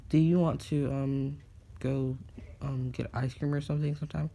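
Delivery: put-on high, hesitant girlish voice; a nervous crush working up courage; shy girl asking out. Girl asks Deku for ice cream.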